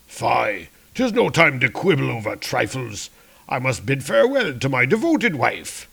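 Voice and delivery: lightly pompous excuse-making; a touch of theatrical haste; blustering warrior. Acted. Warrior making excuses to leave for his wife, lightly pompous.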